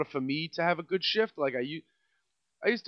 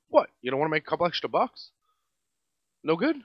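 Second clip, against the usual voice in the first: mocking manager; faster than usual. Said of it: "Do me a favor".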